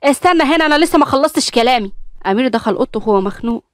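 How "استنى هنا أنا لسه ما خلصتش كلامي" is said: high, insistent call after him; exasperated call. Acted. Mother following her son into his room, exasperated. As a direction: stop him before he leaves the room. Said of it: "مشيت وراه بخنقة وقالت".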